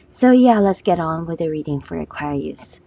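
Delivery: real hoarse, rough throat; hoarse from a sore throat. Real, not acted. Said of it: "pardon me for my hoarse voice".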